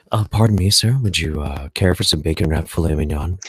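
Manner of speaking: imitating a fussy restaurant server; annoying waiter voice. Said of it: "those annoying voices".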